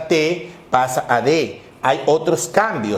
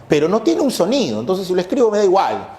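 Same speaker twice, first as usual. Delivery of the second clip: quoting a student; 4 semitones higher, much faster than usual. Retold or imitated. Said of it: "me dicen".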